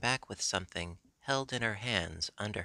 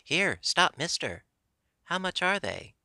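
high, loud hail to a passing seller; sudden call; 8 semitones higher, 4 dB louder than usual. A narrator's reading. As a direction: call out abruptly, pitched up. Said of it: "she calls out quite sudden".

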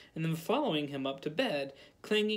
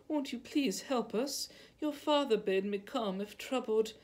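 sobbing mother; 6 semitones higher than usual. A narrator's reading. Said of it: "sobbing as though her heart would break".

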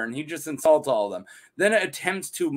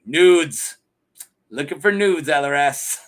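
louder, matter-of-fact mock answer; blunt Leo reply; 6 dB louder than usual. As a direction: say it like it's obvious, half laughing. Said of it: "And he's like".

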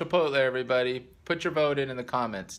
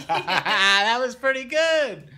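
spoken through laughter; laughing; 9 semitones higher, 5 dB louder, slower than usual. Real, not acted. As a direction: laugh while saying it. Laughing after the song.

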